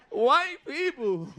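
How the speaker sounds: slow, exaggerated polished white voice. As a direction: stretch it out in a proper white voice. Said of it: "We call it the white voice".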